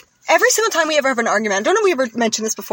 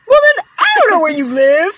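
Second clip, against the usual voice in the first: higher, louder deadpan movie line; movie guy voice; 7 semitones higher, 6 dB louder than usual. Retold or imitated. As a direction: toss it off like a film hero. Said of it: "the guy's like".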